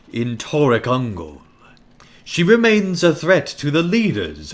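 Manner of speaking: haughty orc emissary, commanding. Acted. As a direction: lord it over a lowly orc. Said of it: "a really good orc voice here".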